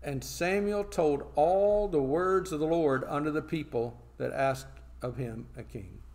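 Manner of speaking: slow, emphatic Bible reading; scripture reading. Acted. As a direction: proclaim the verse with weight on key words. Reads scripture aloud.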